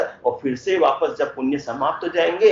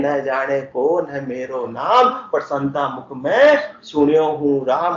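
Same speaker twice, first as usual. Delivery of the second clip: slow, drawn-out scripture couplet; verse recitation; 2 semitones lower than usual. Acted. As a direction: recite the couplet slowly, stretching the line ends. (धीमे, खींचकर दोहा पाठ)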